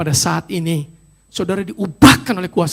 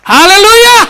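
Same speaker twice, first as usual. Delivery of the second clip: very loud, high cry of praise; exultant shout; 14 semitones higher, 16 dB louder, slower than usual. Real, not acted. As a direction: shout it out to the whole congregation. Preacher calls out praise to congregation. (seruan pujian lantang)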